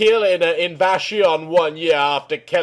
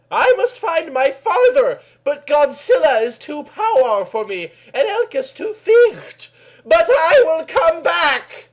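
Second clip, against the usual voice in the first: loud cry; 12 semitones higher, 4 dB louder than usual. Acted. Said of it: "she cried, loudly".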